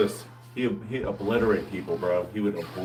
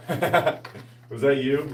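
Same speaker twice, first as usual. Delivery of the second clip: slow, stretched tease through a laugh; laughing, drawn out; 3 semitones higher, much slower than usual. Real, not acted. Teasing the viewer, slow and laughing. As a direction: drag out the question while laughing.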